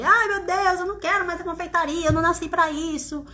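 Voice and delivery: hammed-up tearful lament; retold tearful complaint. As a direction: imitate yourself crying to your husband, without real tears. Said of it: "eu ia chorar".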